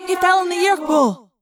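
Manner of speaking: put-on high, urgent girl's voice; urgent and worried; alarmed girl voice. A narrator's reading. Cassie, alarmed, mid-battle.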